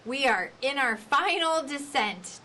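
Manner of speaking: slow, measured pilot voice; slow final-descent cabin announcement. Shown as a demonstration. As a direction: land it like a calm captain. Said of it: "slow down towards the end".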